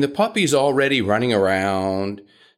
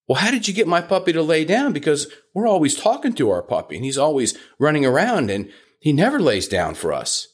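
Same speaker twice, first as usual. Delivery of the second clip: excited owner; 6 semitones higher, faster than usual. Retold or imitated. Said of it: "And they say".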